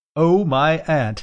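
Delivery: high, hysterical giggling while talking. A man has nailed a writhing hand to a board, giggling hysterically. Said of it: "he giggled hysterically".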